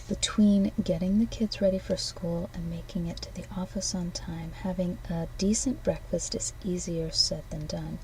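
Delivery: packaging copy read aloud. Acted. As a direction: sell it like a breakfast ad.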